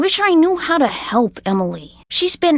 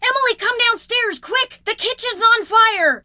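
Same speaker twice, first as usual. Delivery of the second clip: alarmed calling; 7 semitones higher than usual. Acted. Calling out about kitchen fire.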